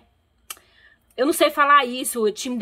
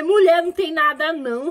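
exasperated retort; 6 semitones higher, 4 dB louder than usual. Retold or imitated. Retold retort to grandmother's complaint.

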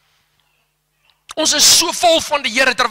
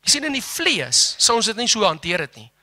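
ordinary delivery

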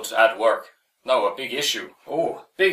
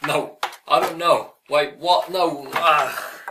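put-on Irish accent; 2 semitones higher, slower than usual. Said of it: "I lost the accent a little bit".

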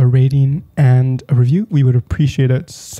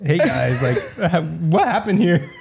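reporter impression, laughing; 3 semitones higher, 3 dB quieter than usual. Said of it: "He's like".

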